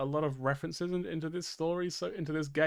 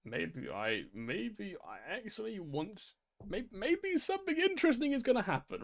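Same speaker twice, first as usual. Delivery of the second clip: musing; 4 dB quieter, slower than usual. Retold or imitated. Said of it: "where I've just been like".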